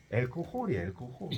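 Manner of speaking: 알코홀 with an h, stress at the end; English pronunciation. Shown as a demonstration. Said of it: "이거 아니에요". (영어식 발음 알코홀)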